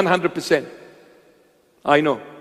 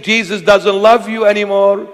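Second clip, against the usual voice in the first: taunting, lightly sung-out whisper of doubt; a hint of a mocking tempter; voice of Satan; 2 semitones higher than usual. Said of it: "When you hear a voice in your head saying".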